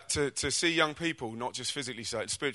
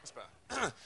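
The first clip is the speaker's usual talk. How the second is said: laughing; 12 semitones higher, 11 dB quieter, slower than usual. Real, not acted. Laughing after composing himself.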